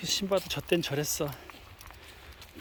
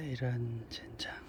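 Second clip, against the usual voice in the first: whispering; 5 semitones lower, 8 dB quieter, slower than usual. Real, not acted. Unvoiced slow whisper.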